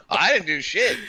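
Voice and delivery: high voice through laughter; giggling protest; laughing denial. Real, not acted. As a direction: deny it while cracking up.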